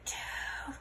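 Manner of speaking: hushed whisper. Acted. Don Diego hissing a warning from the crater. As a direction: whisper it urgently. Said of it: "whispered Don Diego".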